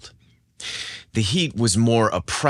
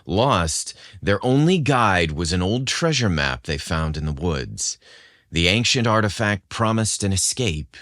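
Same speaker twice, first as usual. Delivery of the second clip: dramatic teaser narration. A narrator's reading. Host teasing listeners with the episode's dramatic hook. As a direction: tease the adventure ahead.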